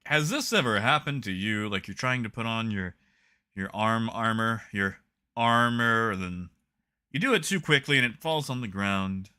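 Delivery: infomercial pitch. Pretend. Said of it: "That sounds like an infomercial".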